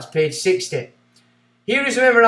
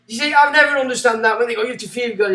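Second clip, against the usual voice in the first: getting a bit excited; 5 semitones higher, 3 dB louder, faster than usual. Real, not acted. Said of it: "I'm getting a bit excited".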